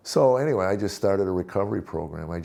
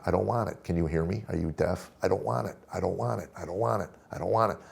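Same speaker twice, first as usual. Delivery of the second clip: mock yell, repeated insistently; retold yelling. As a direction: replay an angry tirade at half volume. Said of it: "yelling at her".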